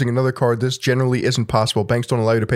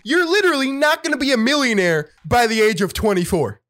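finance guru voice; 10 semitones higher than usual. Retold or imitated. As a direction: lecture like a smug money guru. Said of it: "finance people".

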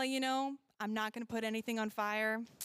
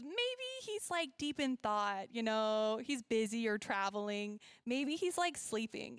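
making fun. Retold or imitated. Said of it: "He started making fun".

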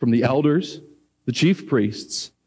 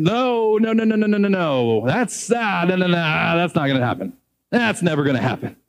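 frantic denial. Retold or imitated. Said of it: "we're saying".

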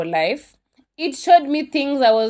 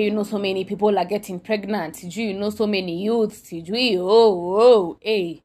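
imitating the pastor in a light Nigerian accent that rises into loud oh, eh; a lightly voiced Nigerian accent from a pastor lecturing about pregnant youths; 3 dB louder than usual. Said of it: "she's doing it in a Nigerian accent".

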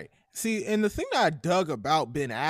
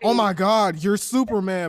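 mock surprise; 4 semitones higher, 7 dB louder than usual. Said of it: "when he takes these off".

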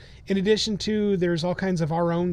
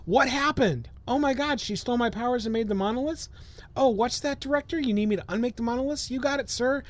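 high dazed hero voice; goofy Flint voice; 5 semitones higher than usual. Retold or imitated. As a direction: play a clueless hero. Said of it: "he could wake up and go".

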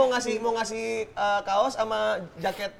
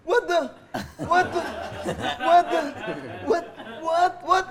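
surprised; 6 semitones higher, 10 dB louder, slower than usual. Pretend. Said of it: "And action".

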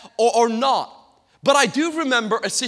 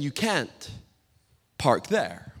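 remembered voice; 7 semitones lower, 7 dB quieter, slower than usual. Retold or imitated. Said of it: "I could hear her voice in my head".

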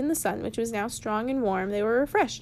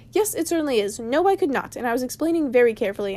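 irritated, quick and pushed louder; cross wizard; 3 dB louder than usual. Acted. Gandalf to the dwarves, crossly fast reply. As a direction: snap back at the nagging dwarves, faster. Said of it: "answered the wizard crossly".

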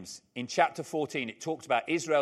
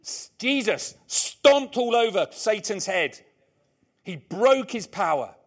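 loud, higher, emphatic proclamation; forceful preaching; 5 semitones higher, 8 dB louder, slower than usual. Real, not acted. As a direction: hammer out the victory from the pulpit. Preacher proclaims victory over Satan.

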